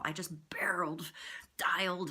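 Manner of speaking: breathy whispered aside; whispering. Real, not acted. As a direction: drop to a whisper. Whispered narration.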